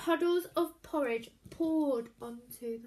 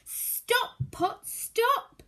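higher, louder call; shouting spell; 9 semitones higher, 8 dB louder, much slower than usual. A narrator's reading. Hannah shouts the magic words at the pot. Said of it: "Hannah shouted the magic words".

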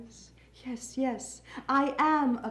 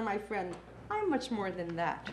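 lower, softer, settled close; calm assurance; 4 semitones lower, 8 dB quieter than usual. Acted. Poet closing on self-knowledge, calm and low. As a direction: drop down and soften to a quiet ending.

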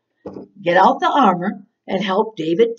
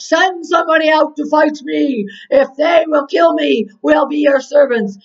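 booming storyteller's giant challenge, raised and forceful; Goliath's shout; 5 semitones higher, 4 dB louder than usual. Acted. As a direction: call out a taunt across the battlefield. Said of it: "Goliath would come out and shout".

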